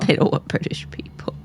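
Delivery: hushed mock-conspiratorial whisper. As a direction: whisper it like a secret.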